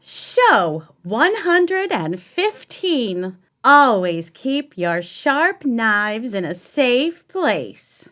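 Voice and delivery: slow, loud announcer intro; chirpy cooking show presenter; TV host voice. Acted.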